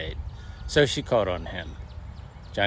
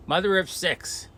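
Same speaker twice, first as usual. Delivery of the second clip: high sing-song taunt; mock husband; 9 semitones higher than usual. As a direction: tease her with the nickname. Husband mocking wife with nickname.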